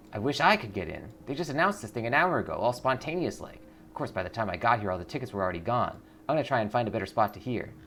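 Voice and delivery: quick, lightly voiced rambling fan; chatty fan. Fan complains the tickets sold out, quick chatter. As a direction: rattle it off like a gossiping fan.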